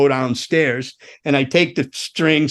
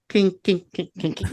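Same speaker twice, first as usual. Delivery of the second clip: short repeated "kink" sounds, tailing softer; imitated string noise; 4 semitones higher, 5 dB quieter than usual. Storyteller showing what the loose guitar did, imitated plinks. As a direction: mimic slack strings plinking. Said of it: "It's going".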